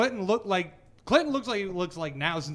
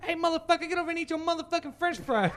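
high, raised voice of a scolding parent; mock yelling parent; 10 semitones higher than usual. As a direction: imitate a parent yelling at the kids. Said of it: "the fucking black parents come in there".

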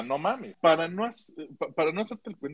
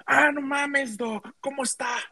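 a lightly voiced, much higher eager greeting; friendly greeting; 11 semitones higher, slower than usual. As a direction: greet the doctor with sudden friendliness. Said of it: "se acerca el güey y me dice".

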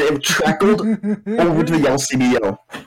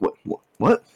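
startled; 8 semitones higher than usual. Retold or imitated. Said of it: "I'm like".

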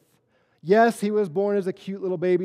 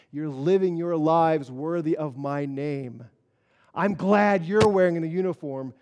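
God's approval; 3 semitones lower than usual. Retold or imitated. Preacher voices God's approval.

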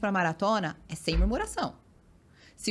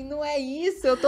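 higher retold protest; 6 semitones higher, 3 dB louder than usual.

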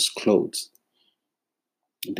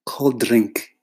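falling, dismissive repeat; flat mocking. Creative mocking a client's offer, flat scorn. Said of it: "you say".

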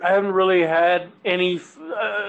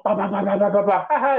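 mock giggling; 2 semitones higher, much faster than usual. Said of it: "hear her laughing behind".

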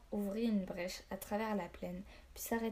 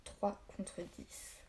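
whispered thought; 6 dB quieter, much slower than usual. A narrator's reading. Grim count before battle.

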